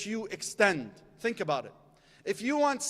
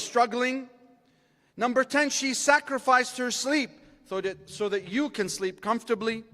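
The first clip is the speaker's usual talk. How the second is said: preaching list; 2 semitones higher, 3 dB louder than usual. Acted. Preacher listing a mother's rights to the audience, rising and forceful. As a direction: drive each number home to the crowd.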